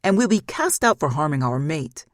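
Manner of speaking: loud exasperated outburst; shouting at brothers in frustration; frustrated shout. Acted. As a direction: throw the words at them. Stefan continues the outburst.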